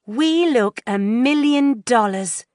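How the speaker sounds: put-on high thrilled teen girl; excited. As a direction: gush at the mirror. Girls admiring themselves.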